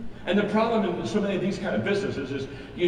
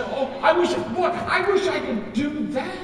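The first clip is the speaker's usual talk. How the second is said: mock wistful audience; 8 semitones higher, 3 dB louder, slower than usual. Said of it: "And, and you say".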